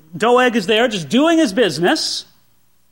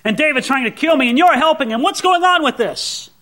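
accusing king; 5 semitones higher than usual. Acted. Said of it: "he starts laying into Ahimelech".

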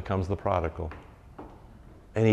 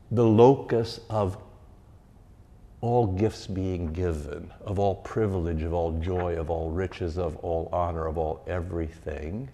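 solemn litany; 3 semitones lower than usual. Real, not acted. Slow fading litany.

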